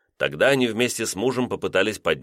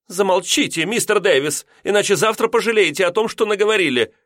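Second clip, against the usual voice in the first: much higher, fast stern warning; 12 semitones higher, 4 dB louder than usual. A narrator's reading. Landlady warning drunk lodger, fast and high. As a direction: hush him, threatening. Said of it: "предостерегла".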